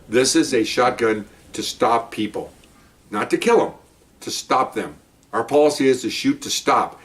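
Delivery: firm, deliberate instruction with stressed key words; retold lecture. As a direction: spell it out to a rookie. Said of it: "I'm, I'm, I'm lecturing him".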